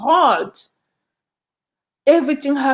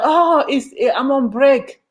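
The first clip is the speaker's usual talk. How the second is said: higher, lightly voiced bored clerk; mock a lazy office worker brushing you off; lazy clerk on break; 4 semitones higher than usual. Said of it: "they're gonna be like".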